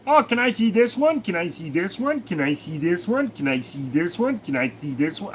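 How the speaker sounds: put-on lightly done Boston kid accent, nagging; Boston accent, asking over and over. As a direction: repeat it like a pestering Boston kid. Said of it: "why they're all from Boston".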